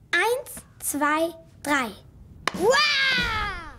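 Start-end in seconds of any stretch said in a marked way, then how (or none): 2.5-3.7 monster roar. Shown as a demonstration. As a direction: belt out a big scary Wah. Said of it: "das geht bestimmt noch lauter".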